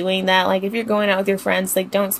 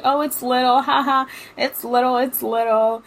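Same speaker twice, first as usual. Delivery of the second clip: laughing taunt; 2 semitones higher than usual. Retold or imitated. Friends taunting the man.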